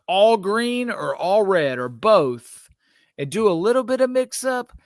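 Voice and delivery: high, slowed exasperated venting; frustrated rant. Real, not acted. To cohost about Nike's Oz dunks, frustrated high rant. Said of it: "I'm frustrated by the principle".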